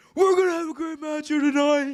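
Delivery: very high-pitched announcer voice. Showing how a promoter delivers a line: Tony Khan impression. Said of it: "Tony will hit that".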